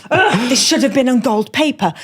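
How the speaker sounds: rueful laugh through it; laughing groan. Retold or imitated. Bride thinking during her vows, laughing ruefully. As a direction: laugh at her own fussing.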